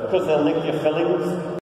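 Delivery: mock Liverpool grandad, dry joke; imitating Grandad. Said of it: "And he said".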